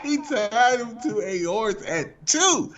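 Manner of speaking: slow, drawn-out astonishment; amazed disbelief. Real, not acted. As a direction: stretch each word in disbelief. Repeats story in disbelief after laughing.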